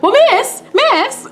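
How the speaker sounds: very high-pitched mock call for attention; high, insistent retold call. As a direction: imitate a customer trying to flag someone down. Retold calling out to saleswoman.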